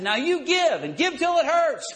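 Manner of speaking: high, loud strong-arm command; bully them into giving; mock forceful demand. Paul twisting their arm, mock forceful demand. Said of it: "grabbed their arm, twisted it behind their back".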